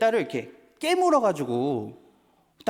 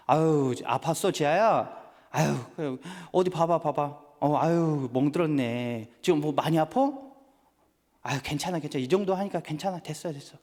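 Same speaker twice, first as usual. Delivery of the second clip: put-on soothing a hurt child; 2 semitones lower than usual. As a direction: gently hush a crying child, fading to a murmur. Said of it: "제가 어떻게 할까요?".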